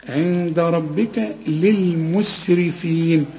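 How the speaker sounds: drawn-out chanted tajweed; slow recitation. Shown as a demonstration. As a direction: recite the phrase slowly and evenly. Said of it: "كل الحروف دي مرققة".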